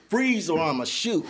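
slow mock police order; mock cop command. Gunman chasing him downhill, slow mock police command. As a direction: drag out the warning like a cop. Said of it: "telling me like he a police officer".

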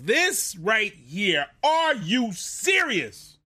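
slow, disbelieving are you serious; exasperated. Real, not acted. Fan reacting to the kick return, exasperated. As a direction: drag it out in annoyed disbelief. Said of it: "is me being pissed off".

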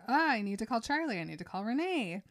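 quick, lightly acted sudden panic; mock urgency. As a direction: blurt it out, imitating someone alarmed. Retold Bella suddenly remembers her parents.

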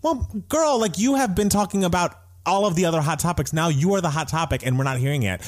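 high, sassy call-out. Retold or imitated. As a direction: call her out with attitude. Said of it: "it was kind of like".

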